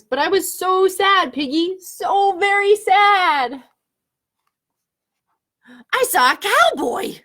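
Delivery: a lightly voiced, eager elephant; excited. Gerald tells Piggy about the cowboy, lightly excited.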